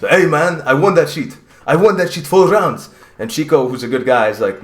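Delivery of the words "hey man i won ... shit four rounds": imitated fighter in a non-American accent; Tignani. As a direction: redo the boast with a foreign accent. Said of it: "I don't know why I gave him".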